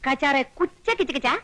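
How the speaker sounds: slow chirpy gibberish; sparrow language. Acted. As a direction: stammer out bird-talk in dismay. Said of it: "ఆ భాష వచ్చేస్తుంది".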